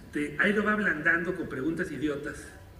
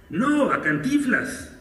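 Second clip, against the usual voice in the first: slow, louder and higher, stressing no; a touch of mock insistence; insistent correction; 8 semitones higher, 9 dB louder, slower than usual. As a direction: lean on "No" to correct him. Reporter insists to the man.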